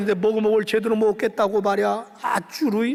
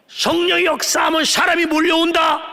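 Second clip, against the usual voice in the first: shout; 3 semitones higher, 4 dB louder than usual. Acted. Repeated refrain, building.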